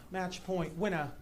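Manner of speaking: quiet, put-on British umpire call; fake British accent. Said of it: "put on a fake British accent".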